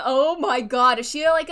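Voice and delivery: loud, thrilled outburst; excited shout. Real, not acted. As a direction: yell it out in delight. Excited reaction to reveal.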